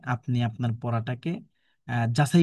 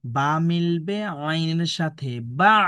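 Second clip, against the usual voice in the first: বা মিলবে আইনের সাথে বা spelled out slowly, each syllable apart; teacher modelling the joined syllable even slower; slower demo; 3 semitones higher, much slower than usual. Shown as a demonstration. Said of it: "দেখুন এইভাবে উচ্চারণ করবেন".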